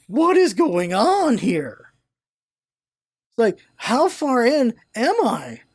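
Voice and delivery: mild retold panic. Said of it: "I'm freaking out in the dream state".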